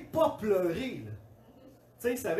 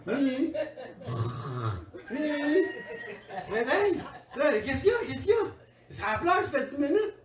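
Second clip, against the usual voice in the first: urgent waking; 5 semitones higher than usual. Retold or imitated. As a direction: shake her awake with urgency.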